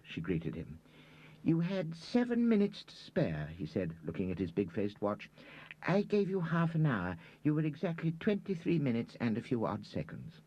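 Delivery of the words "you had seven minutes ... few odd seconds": put-on high-pitched fussy old gentleman; high old man voice. A narrator's reading. Reader telling Margaret her exact time, in a high fussy voice. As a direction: squeak out the precise timing like a fussy old man.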